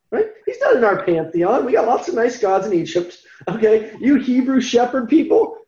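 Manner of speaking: dismissive Pharaoh sketched in a near-normal voice; lightly voiced Pharaoh. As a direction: brush off the slaves' god with mild contempt. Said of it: "And Pharaoh said".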